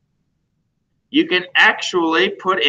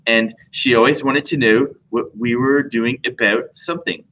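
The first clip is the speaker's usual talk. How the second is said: lightly imitated Canadian accent; a hint of Canadian in the vowels; 2 semitones lower than usual. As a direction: mimic a Canadian woman's accent a little. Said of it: "she talked like this".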